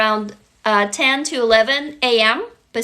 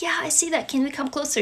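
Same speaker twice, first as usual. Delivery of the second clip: put-on small child voice; 3 semitones higher, 6 dB quieter, faster than usual. Imagined child replies.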